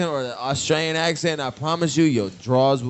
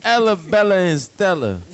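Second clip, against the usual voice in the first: loud, higher mock of an old domino player; hammed-up old-timer; mock old-timer call; 6 semitones higher, 5 dB louder than usual. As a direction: call out the names like an old man at the table. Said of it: "That nigga be like".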